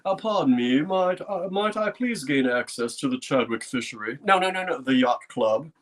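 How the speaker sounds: lightly put-on posh upper-class American accent, barely shifted from his own; playfully rehearses a posh East Coast accent before visiting the yacht club; posh Thurston Howell accent. A hint of a posh Thurston Howell accent. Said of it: "my posh Thurston Howell accent".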